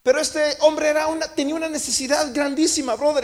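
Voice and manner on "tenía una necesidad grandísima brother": normal talking voice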